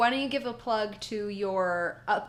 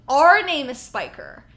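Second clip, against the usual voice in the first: excited retelling; 4 semitones higher, 12 dB louder than usual. Retold or imitated.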